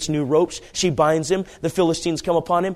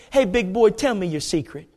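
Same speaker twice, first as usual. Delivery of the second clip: tag; 4 semitones higher than usual. Acted. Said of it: "That's what she's saying".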